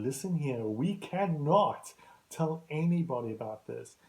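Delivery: acting out a firm warning; emphatic retold warning. Retold warning to keep a secret.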